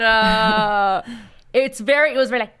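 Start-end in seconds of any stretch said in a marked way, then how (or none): none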